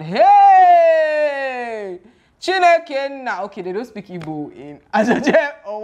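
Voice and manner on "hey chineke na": sudden high, loud exclamation; a gasp of disbelief thrown out loud; shocked exclamation. Real, not acted. Vlogger reacting to the scene with a loud, high exclamation.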